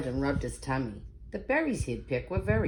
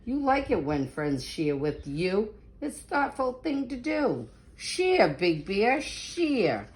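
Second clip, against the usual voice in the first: tree yelling; 3 semitones higher than usual. Acted. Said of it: "The old tree yelled".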